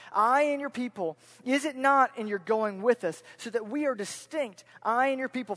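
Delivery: emphatic, projected verse reading; scripture reading. Acted. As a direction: read it out as an urgent appeal. Reads scripture aloud.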